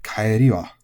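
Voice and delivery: kaeri wa with the pitch peak on ri, then falling; accent on ri. Shown as a demonstration. Teacher giving learners the correct kaeri wa. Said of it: "goes onto the ri".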